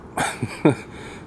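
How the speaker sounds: short breath of a laugh; wry chuckle. Real, not acted. DIYer joking about a bad design, wry chuckle. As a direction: chuckle under the frustration.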